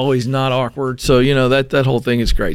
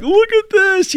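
excited; slower than usual. Retold or imitated. Excited FaceTime retold.

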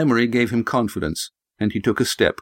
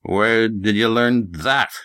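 put-on old prospector; slower than usual. Gruff farmer Jeb voiced.

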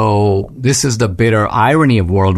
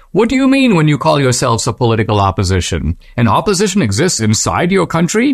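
quick, slightly raised mimicking of a Western official; lightly imitating a naive Westerner; mock Western accent; 3 semitones higher than usual. Solzhenitsyn speaking as a Westerner, lightly mocking Western accent. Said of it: "Solzhenitsyn kind of putting on his Western accent".

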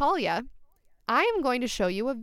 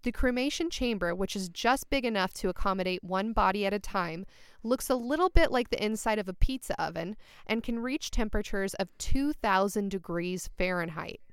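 sexy voice. Pretend. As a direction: read it like a seductive bedtime story. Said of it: "reading that, like, in a sexy voice".

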